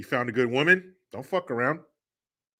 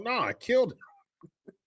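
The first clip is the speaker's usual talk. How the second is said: put-on higher, slower, innocent little boy; dad mimicking his son's proud answer, in a higher, slower kid voice; young son's voice; 10 semitones higher, 3 dB quieter, slower than usual. Dad quoting his little son, in a higher, slower kid voice. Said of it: "He's like".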